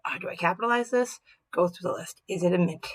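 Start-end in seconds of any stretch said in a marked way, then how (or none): 0.1-1.2 "Do I capitalize this?" asked aloud, pitched higher and puzzled; voiced puzzled self-question; wondering aloud. Shown as a demonstration.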